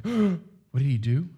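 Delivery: slow, stunned disbelief; shocked. Shown as a demonstration. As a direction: let the shock slow every word. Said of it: "be kind of shocked".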